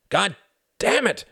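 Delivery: high, loud outburst; angry cry. A narrator's reading. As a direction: cry out in sudden irritation. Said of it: "cried his father".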